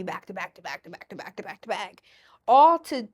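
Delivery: fast whispered repetition. Real, not acted. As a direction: rattle it off in a whisper.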